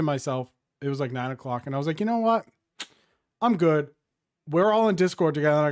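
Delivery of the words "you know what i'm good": high, loud, fed-up "you know what"; mock fed up, done with it; fed-up quitting. Telling the crew he's done playing, fed up.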